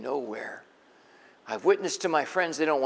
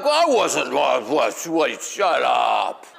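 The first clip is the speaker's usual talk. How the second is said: laughing protest; 6 dB louder, much slower than usual. Acted. Disciples teasing in the boat.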